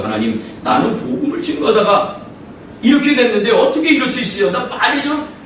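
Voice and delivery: mock-whiny plea, half laughing; complaining prayer. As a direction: act out a prisoner begging to be let out. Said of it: "그런 기도를 했을 거예요".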